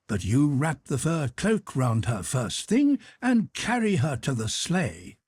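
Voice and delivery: a hint of a swaggering rake bossing servants; Dolokhov's voice. Officer orders a servant to fetch the sable cloak, lightly voiced and brash.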